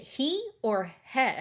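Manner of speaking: "he" said as long HEE, then as short HEH; two pronunciations contrasted. Shown as a demonstration. Asking viewers which vowel is right, "he" as hee versus heh. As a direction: offer "he" as hee or heh, the first rising. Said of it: "don't know how to pronounce it".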